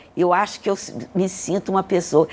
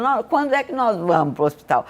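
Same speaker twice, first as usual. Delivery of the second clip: put-on higher, quicker quote of eager kids; a hint of childlike eagerness, pitched up; eager children, retold; 5 semitones higher, faster than usual. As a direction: lightly imitate children keen to go. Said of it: "que eles querem ir pro hospital".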